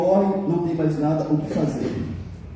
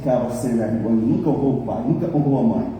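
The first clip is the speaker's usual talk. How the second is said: scornful aside; 5 semitones lower than usual. Retold or imitated. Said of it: "falei assim".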